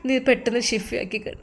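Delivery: a mother near tears, pleading softly with her husband's student; tearful plea. Acted. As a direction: speak through held-back tears, quietly. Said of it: "ആ ഉമ്മയുടെ ആ ഒരു കണ്ണുനീർ".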